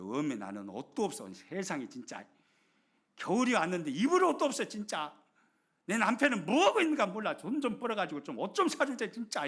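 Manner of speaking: mock grumbling. Wife complaining about her husband, mock whiny grumble. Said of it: "투정이 나옵니다".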